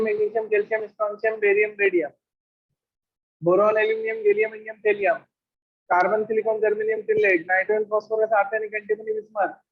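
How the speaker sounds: rapid rote recital of the groups; at speed. Shown as a demonstration. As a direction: rattle the element names off quickly. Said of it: "इनको speed में बोलना है".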